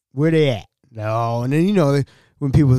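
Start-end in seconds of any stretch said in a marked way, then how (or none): 0.1-0.7 loud, impatient manager's question; firm demand. Retold or imitated. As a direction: demand it firmly at normal pitch. Manager demanding missing workers' whereabouts.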